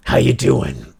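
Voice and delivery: mock Italian-American "how you doing"; put-on Italian-American accent; stuck mobster accent. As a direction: say it like a New York mobster. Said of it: "get out of this fucking accent".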